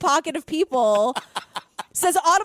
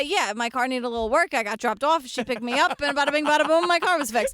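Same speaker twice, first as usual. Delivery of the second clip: lightly voiced New York Queens accent; 3 semitones lower than usual. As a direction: say it like a guy from Queens. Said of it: "Back in Queens, we say".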